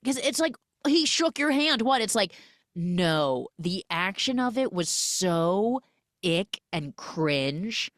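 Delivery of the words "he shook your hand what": high, puzzled imitation of a dismissive listener; mock incredulous. Man brushing off her unease, mock incredulous. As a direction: play baffled, pitched well up. Mimics a man who doesn't get it.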